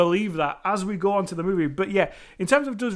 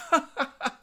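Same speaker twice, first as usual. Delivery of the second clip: high mock chuckle; imitated chef's laugh; 6 semitones higher than usual. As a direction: fake a laugh as if it's all a joke. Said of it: "the chef's just like".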